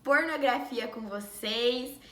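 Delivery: rough, worn-out voice; talking through a sore throat; hoarse voice. Real, not acted. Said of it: "a minha voz tá bem ruim".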